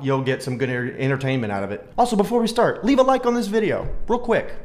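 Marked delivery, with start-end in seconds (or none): 2.0-4.5 high, bright sales pitch for a like; upbeat plug. Real, not acted. YouTuber pitching viewers to like the video, high and eager. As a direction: pitch it up to sell the ask.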